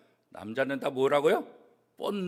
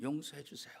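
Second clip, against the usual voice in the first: humble plea; 10 semitones lower, 14 dB quieter than usual. Acted. Pastor voices a sinner's plea.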